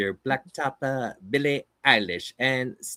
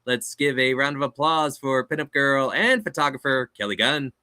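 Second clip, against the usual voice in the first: big booming ring intro; boxing ring announcer. Acted. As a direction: hype up the crowd like a fight night announcer. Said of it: "That's my ring announcer voice".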